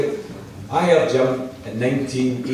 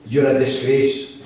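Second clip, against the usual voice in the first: mock angry rant, a bit higher and raised; retold shouting; 4 semitones higher than usual. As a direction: imitate a heckler lecturing you, lightly raised. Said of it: "he was shouting at me and saying".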